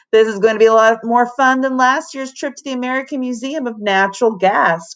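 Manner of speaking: fast eager gushing; excited gush. Acted. Third girl gushes about the trip, fast. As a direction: rattle it off excitedly. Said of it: "cried Ashley Z".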